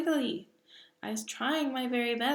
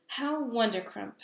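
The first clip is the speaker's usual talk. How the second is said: beaming cry; 3 semitones higher, 4 dB louder than usual. Acted. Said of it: "cried the B F G, still beaming".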